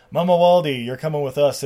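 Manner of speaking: lightly acted command; mock firm order. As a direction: order it like a cop making an arrest. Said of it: "One of them's like".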